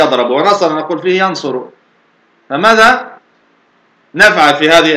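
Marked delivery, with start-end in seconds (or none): 0.0-0.3 يضرب said "yadrabu", a after the ra; fatha on the ra. Shown as a demonstration. Teacher ruling out a second form, يضرب as "yadrabu". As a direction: give يضرب an a vowel: yadrabu. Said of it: "ولا نقول فيه".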